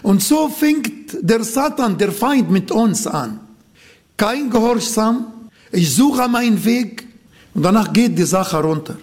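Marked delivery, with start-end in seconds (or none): none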